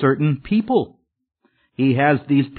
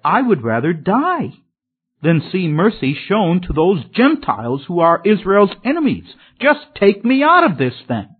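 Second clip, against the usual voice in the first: higher, rising protest from an angry prophet; indignant Jonah; 4 semitones higher than usual. Retold or imitated. Preacher voices Jonah refusing mercy for the Gentiles, higher and indignant. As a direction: push it up, a petulant outburst. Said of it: "Jonah said".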